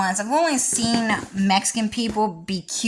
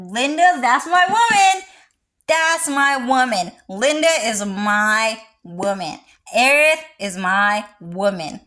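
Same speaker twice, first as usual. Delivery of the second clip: excited boast; 3 semitones higher, 4 dB louder than usual. Acted. Gushing over a character.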